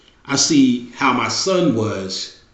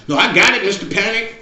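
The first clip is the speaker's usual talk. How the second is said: put-on eager boy; 8 semitones higher than usual.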